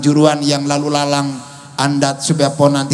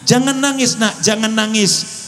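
higher-pitched, mildly soothing plea; consoling a child; 5 semitones higher than usual. Retold or imitated. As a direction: gently hush a child, voice lifted. Prophet consoling a crying orphan. (menenangkan anak dengan lembut, nada agak tinggi)

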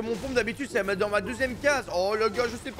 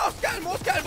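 still panicky; 7 semitones higher than usual. Real, not acted. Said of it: "je me calme".

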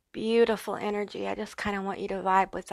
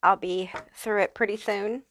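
slushy lisp on the s sounds. Real, not acted. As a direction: speak with a light lisp, s turning to sh. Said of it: "excuse my lisp here".

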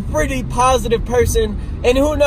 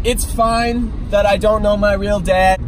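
ordinary talk

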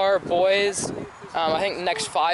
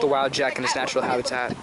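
nature documentary; 7 semitones lower than usual. Pretend. Mock nature documentary about teammate.

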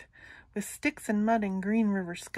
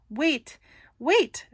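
higher, louder pleading; little goat; 5 semitones higher, 5 dB louder than usual. Acted. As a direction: squeak out a frightened plea. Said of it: "said Little Billy".

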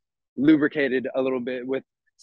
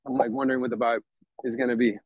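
breathless from walking; winded, short of breath; 2 semitones lower than usual. Real, not acted. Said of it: "Whew, I'm out of breath".

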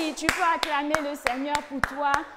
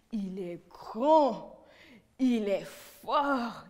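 whispered; 6 semitones lower, much slower than usual. Acted. Leader starts the song.

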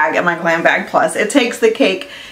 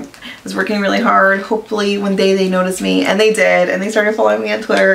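ordinary talk

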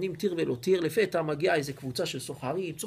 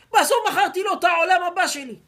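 much higher and louder, laughing as he brags; 10 semitones higher, 9 dB louder than usual. Acted. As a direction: laugh at the fool who bought it. Merchant laughs telling his wife.

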